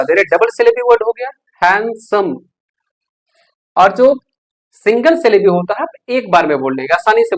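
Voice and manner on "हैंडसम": हैंडसम in two separate parts, हैंड, सम; split into two syllables. Shown as a demonstration. Teacher showing a double-syllable word, हैंडसम said in two parts. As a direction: break हैंडसम after हैंड. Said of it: "दो बार में बोला".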